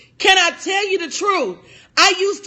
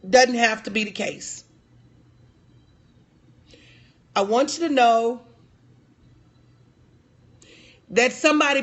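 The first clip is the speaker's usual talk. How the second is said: lower, subdued and sincere; heartfelt reassurance; 3 semitones lower than usual. Real, not acted. Coach telling women somebody believes in them, heartfelt reassurance. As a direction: reassure them gently, with long pauses.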